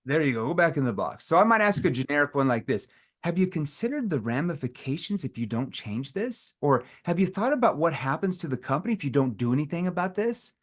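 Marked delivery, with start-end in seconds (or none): 3.2-10.5 challenging tone. Shown as a demonstration. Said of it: "I'm asking it in a challenging tone".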